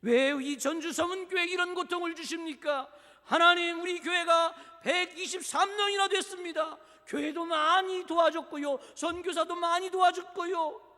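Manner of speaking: loud, high, acted remonstrance; confrontational protest. Congregation listing its good deeds to God, loud protest. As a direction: demand an answer from God, full voice. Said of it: "우리는 그렇게 따진다".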